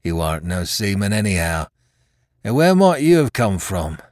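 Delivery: rough-spoken seaman grumbling about his luck; wounded pirate sailor. Acted. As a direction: play a hurt old mutineer, complaining. Voices Hands challenging the narrator.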